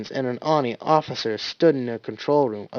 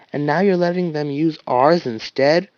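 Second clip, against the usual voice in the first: incredulous; 3 semitones higher, 4 dB louder than usual. Acted. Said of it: "Wash repeated, sounding incredulous".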